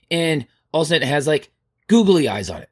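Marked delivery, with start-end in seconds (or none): none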